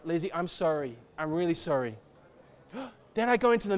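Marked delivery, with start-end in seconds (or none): 0.0-2.0 gentle apology. Retold or imitated. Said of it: "to my wife".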